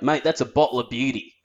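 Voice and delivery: lightly put-on Aussie accent; a touch of broad Australian slang delivery; stereotypical Australian. Shown as a demonstration. Demonstrating Aussie slang, lightly stereotypical Australian accent. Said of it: "I have to use, like an Australian".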